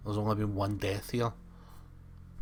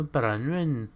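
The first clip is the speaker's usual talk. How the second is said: put-on Welsh accent; 3 semitones higher than usual. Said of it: "change to a Welsh voice when I say Bronwyn".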